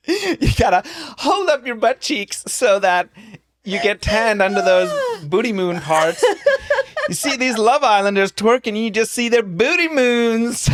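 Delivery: high-pitched imitation of someone explaining; mimicked explanation. Co-host imitating partner explaining booty moons, high mimicry. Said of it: "this is how you explained it".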